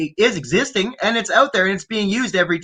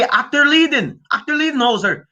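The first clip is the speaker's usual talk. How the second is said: mock German gibberish; 5 semitones higher than usual. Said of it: "Say, say".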